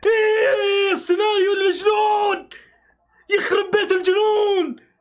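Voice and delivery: slow, high, half-crying shout; real emotional outcry; overwhelmed shout. Real, not acted. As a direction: let the madness overwhelm you. Reacting to wild match turn.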